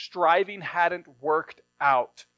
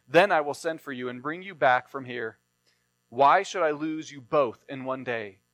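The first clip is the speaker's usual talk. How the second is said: scripture reading; 2 semitones lower than usual. Acted. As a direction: read the passage steadily to the congregation. Reading scripture aloud in sermon.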